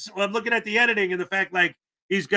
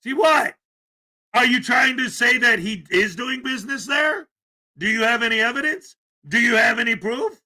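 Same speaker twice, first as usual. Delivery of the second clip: incredulous challenge; 4 semitones higher, 4 dB louder than usual. Real, not acted. Vlogger retorts to the auditor.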